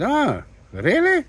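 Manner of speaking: stunned the credit went through; surprised. Retold or imitated. Owner hears his credit passed.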